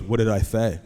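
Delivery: imitated child testing dad, lisped; lisping four-year-old. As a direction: challenge dad as a lisping little boy. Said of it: "he has a lisp right now".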